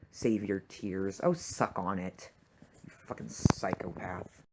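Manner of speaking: low, slow, sneering mockery of Brett; slow contemptuous sneer at a villain. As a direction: drag it out with contempt.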